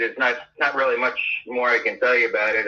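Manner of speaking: normal talking voice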